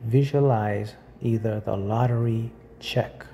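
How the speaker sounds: measured guided visualization with long pauses; unhurried meditation guide. Acted. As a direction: lightly guide the listener through each image, pausing between phrases.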